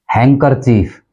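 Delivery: हैंकरचीफ as HANG-ker-cheef; हैंकरचीफ going from nasal straight to K; silent D. Shown as a demonstration. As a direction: drop the D in हैंकरचीफ. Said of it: "डी इसके अंदर silent है".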